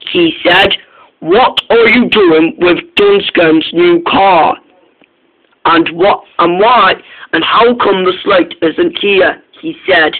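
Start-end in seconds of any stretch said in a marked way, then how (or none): 1.2-9.4 cross. Acted. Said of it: "He was feeling very cross".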